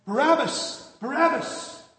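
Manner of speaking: loud high cry from the crowd; crowd yelling. Acted. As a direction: shout it out like a baying crowd. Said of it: "And they're yelling".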